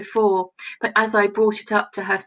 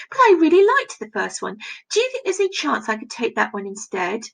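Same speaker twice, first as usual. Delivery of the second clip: awkward plea; faster than usual. Acted. Reading a pleading quote aloud.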